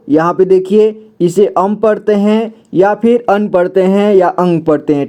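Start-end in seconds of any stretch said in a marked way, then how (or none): 1.5-1.7 अम ending in an m sound; nasal sound as अम. Shown as a demonstration. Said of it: "इसे तीन तरह से उच्चारण करते हैं". 3.3-3.5 अन ending in an n sound; nasal sound as अन. Shown as a demonstration. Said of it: "इसे तीन तरह से उच्चारण करते हैं". 4.3-4.6 अंग with an ng sound; nasal sound as अंग. Shown as a demonstration. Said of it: "इसे तीन तरह से उच्चारण करते हैं".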